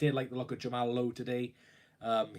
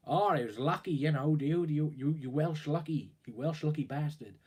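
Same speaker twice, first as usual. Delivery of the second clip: lightly put-on American accent, a bit higher; 3 semitones higher than usual. Fan mocking the club's owners in a light American accent. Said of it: "That's my American accent".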